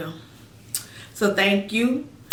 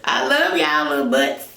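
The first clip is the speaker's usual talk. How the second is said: laughing; 5 semitones lower, 4 dB louder than usual. Real, not acted. Affectionate laughing farewell.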